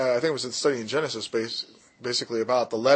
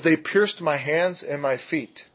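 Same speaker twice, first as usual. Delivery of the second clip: slow quoted verse; slower than usual. Shown as a demonstration. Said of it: "the part where it says".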